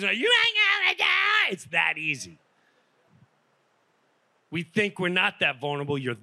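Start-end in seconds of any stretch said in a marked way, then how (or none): 0.1-1.5 mock incredulous. Mocking girl's reaction, far high.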